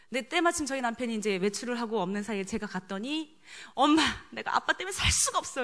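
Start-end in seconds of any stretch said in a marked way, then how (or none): 3.7-5.6 lightly acted teenage grievance, a little higher; retold complaining. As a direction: complain to mom like a fed-up son, mildly. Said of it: "저한테 막 하소연을 하는 거죠". (엄마에게 살짝 하소연하듯)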